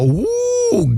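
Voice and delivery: high mock woo; a high, giddy hammed-up woo. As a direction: whoop it like a giddy girl. Quoting excited woman.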